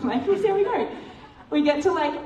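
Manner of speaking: high, laughing aside; real laughter spilling into the words. Real, not acted.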